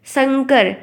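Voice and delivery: शंकर said as "sankar"; plain s sound. Shown as a demonstration. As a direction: begin शंकर with an unwhistled "s". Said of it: "जब सीटी वाला सा निकलता है".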